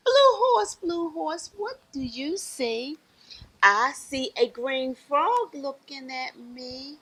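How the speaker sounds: rhythmic picture-book refrain; reading to children. Acted. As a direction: chant it invitingly for little listeners.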